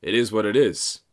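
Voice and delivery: high, loud mock call across a restaurant. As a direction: hail Marty like an old pal. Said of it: "I walk by and say".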